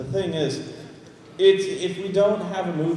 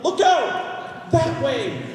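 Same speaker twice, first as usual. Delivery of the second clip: mock Alyx lines; 9 semitones higher, much slower than usual. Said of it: "Alex record some lines like".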